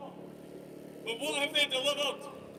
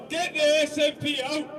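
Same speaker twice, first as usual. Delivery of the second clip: rallying cry; 5 dB louder than usual. Real, not acted. Rally speech call to crowd.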